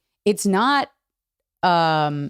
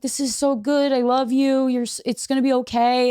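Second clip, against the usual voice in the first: high, cooing reassurance; retold comforting; 6 semitones higher than usual. Retelling how they comforted him, high reassuring voice. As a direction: soothe as if comforting someone crying.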